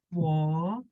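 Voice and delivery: 我 dipping down and then up; third tone. Shown as a demonstration. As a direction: model 我 in a careful third tone. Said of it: "third tone".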